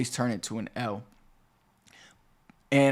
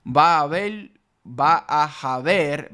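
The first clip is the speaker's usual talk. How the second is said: ordinary delivery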